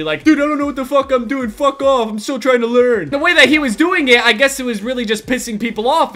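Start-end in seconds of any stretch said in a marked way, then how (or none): 0.2-3.1 mildly irritated mock gamer brush-off; negative, defensive retort. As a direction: imitate a player snapping back defensively. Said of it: "responding very negatively".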